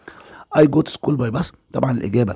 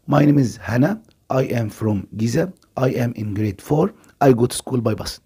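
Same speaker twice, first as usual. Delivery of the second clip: slow, deliberate dictation pace, each word clear; slow listening-test read; slower than usual. Shown as a demonstration. Teacher reads the listening passage to pupils, slow and deliberate. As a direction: read it out slowly like an exam recording. Third reading of text.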